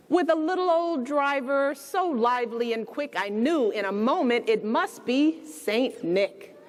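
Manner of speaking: gentle read-aloud storytelling; bedtime story reading. A narrator's reading. Reading The Night Before Christmas aloud to children, storybook voice.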